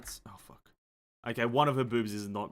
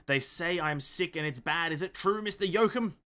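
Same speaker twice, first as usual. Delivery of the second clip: crying, worn out; 4 semitones higher than usual. Acted. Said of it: "that was a good crying impression".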